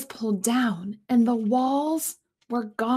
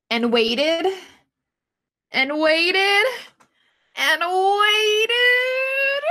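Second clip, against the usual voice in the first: each waited higher and louder; building suspense; 8 semitones higher, 5 dB louder, much slower than usual. Acted. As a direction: build the tension word by word.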